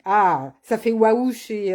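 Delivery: slow, savoured waouh, read aloud; drawn-out waouh. Shown as a demonstration. Reading a viewer's comment, waouh drawn out slowly. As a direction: stretch out waouh as a compliment from a comment. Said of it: "ça fait wagon chez Christine".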